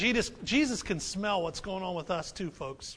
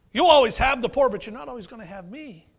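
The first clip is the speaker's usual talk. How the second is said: sarcastic Jesus; 7 dB louder, faster than usual. Retold or imitated. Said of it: "sarcasm coming from Jesus".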